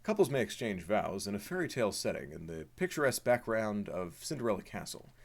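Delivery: lightly voiced tour recording; monorail tour narration. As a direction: recite it like the monorail's tour tape. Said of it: "Please say the monorail, uh, monologue".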